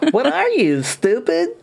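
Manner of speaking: put-on high indignant anime girl; bratty, indignant anime voice; Asuka impression. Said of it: "Amanda Wynn Lee as Asuka".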